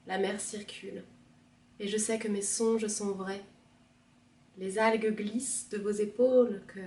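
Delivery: lyrical recitation, each phrase set apart; poem reading. Acted. Second reader taking up the poem, measured recitation. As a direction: recite with weight, easing down at phrase ends.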